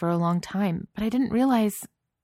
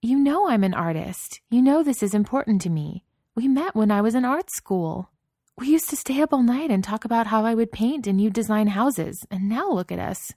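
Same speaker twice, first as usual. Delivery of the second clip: impassioned pleading; 6 semitones higher, 4 dB louder than usual. A narrator's reading. Wife pleading angrily with husband.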